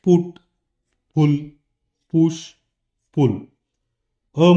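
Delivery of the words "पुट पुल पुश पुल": "पुट" "पुश" with a short u; short u demo. Shown as a demonstration. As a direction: keep the u short. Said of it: "ऊ मध्ये बघा". (छोटा उ का उच्चार)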